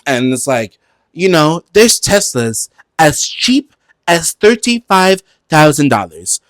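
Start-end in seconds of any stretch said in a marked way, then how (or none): 1.1-6.4 reading talking points. Retold or imitated. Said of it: "reading off his little fucking, his talking points".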